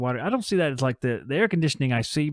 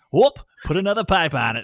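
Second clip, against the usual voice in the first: put-on Northeastern regional accent; 5 semitones higher, 6 dB louder than usual. Attempting a regional impression that keeps slipping: slipping into Northeastern accent. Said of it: "It turns back to the Northeast for me".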